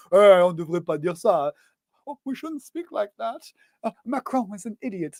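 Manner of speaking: hammed-up imitation of a TV news voiceover; mocking the voiceover. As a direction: parody the flat dubbing voice over the French. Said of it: "The fucking voiceovers are to die for".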